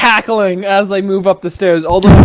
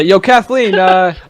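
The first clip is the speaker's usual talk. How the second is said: calling up the stairs; 3 semitones higher than usual. Acted. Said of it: "Just gonna say".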